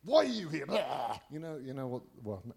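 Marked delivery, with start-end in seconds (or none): 0.0-0.7 high, raised menacing demon voice; intimidating demon. Retold or imitated. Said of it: "it's trying to intimidate me". 0.7-1.2 monstrous "blah" to intimidate; imitated demonic roar; mock demon noise. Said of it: "it's trying to intimidate me".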